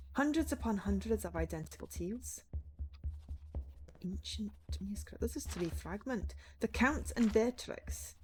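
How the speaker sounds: measured fable reading; storybook narration. Acted. Writer reading an ancient manuscript, storybook narration. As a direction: read it out like an old tale.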